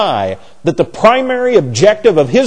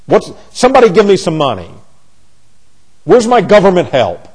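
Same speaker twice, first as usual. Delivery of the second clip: mock entitled demand. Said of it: "pre-traumatic stress syndrome".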